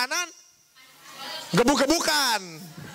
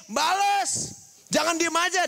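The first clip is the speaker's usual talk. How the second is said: higher, drawn-out command; urging retaliation; 4 semitones higher than usual. Retold or imitated. Big brother teaching younger one to hit back, urging command. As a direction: push the word out like an order.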